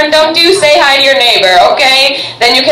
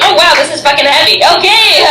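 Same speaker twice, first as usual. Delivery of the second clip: ordinary delivery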